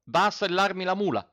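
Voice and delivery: high, loud command to the farmhand; ordering. A narrator's reading. Landowner orders the farmhand to saddle the mule, loud. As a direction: snap out the order. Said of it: "ordinò al contadino".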